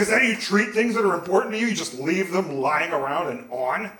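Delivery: indignant. Retold or imitated. Teenager turning the blame on the nurse, indignant. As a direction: rattle off the accusation, acting offended. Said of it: "I was so indignant".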